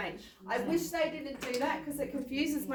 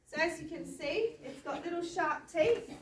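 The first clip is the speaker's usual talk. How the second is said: Kylie Jenner voice; 5 semitones higher than usual. Acted. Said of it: "I'm doing my Kylie Jenner again".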